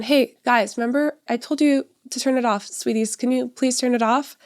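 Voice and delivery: high, sweet, nagging plea; passive parent. Retold or imitated. Mom mocks herself asking kids a third time, high and pleading. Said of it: "for me to be passive and be like".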